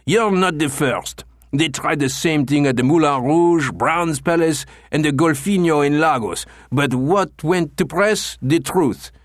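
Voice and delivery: booming indignation. Acted. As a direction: boom it through the whole gymnasium. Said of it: "his voice echoed through the gymnasium".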